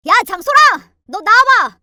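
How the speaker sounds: loud, high summons from an irate brother; angry yell. Acted. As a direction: yell for your sister to come out. Brother yells for his sister. (화나서 동생을 부르는 고함)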